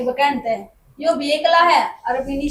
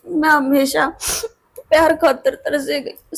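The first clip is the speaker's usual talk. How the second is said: crying; slower than usual. Acted. Sister-in-law apologising, breaking down.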